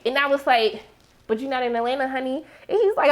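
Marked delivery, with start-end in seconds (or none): 1.3-2.4 softer, dropping away on "honey"; sassy put-down. Retold or imitated. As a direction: shut him down with a knowing quiet dig. Retorting to Paperboy.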